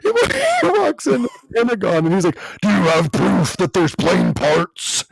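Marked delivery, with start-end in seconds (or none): 2.6-5.0 slow, drawn-out impression of a governor; lightly mimicked ex-governor, slowly; Jesse impression. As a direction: imitate the governor, stretching the words out. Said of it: "he has a very interesting voice".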